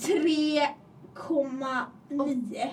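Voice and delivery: very slow, spaced-out figure; deliberate precision. Real, not acted. Friend specifies distance to school, deliberate slow delivery. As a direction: spell out the distance word by word.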